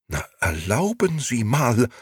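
high-pitched affronted retort; indignant, high protest; heated indignation. A narrator's reading. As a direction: answer back sharply, taken aback. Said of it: "antwortete die Dame ebenso heftig".

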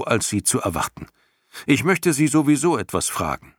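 a hint of a boy, set on his plan; boy hero Atreju. A narrator's reading. Boy tells the dragon he'll face the giants, calmly brave.

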